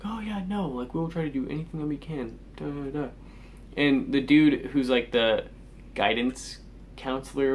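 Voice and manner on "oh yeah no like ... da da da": higher, softer, sing-song imitation of fake friendliness; mock buddy-buddy. Teen mocking school staff faking friendliness, sing-song. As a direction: parody the school staff sucking up, lightly. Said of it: "trying to be all, like, buddy-buddy with me".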